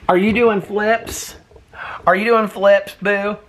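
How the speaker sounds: high gasping delight at the pet; excited pet talk. Real, not acted. Cheering the pet's flips in high excited baby talk. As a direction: gasp and gush high at the pet.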